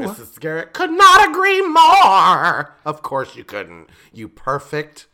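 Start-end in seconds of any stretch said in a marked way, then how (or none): 0.0-2.8 laughing. Real, not acted. Mocking character.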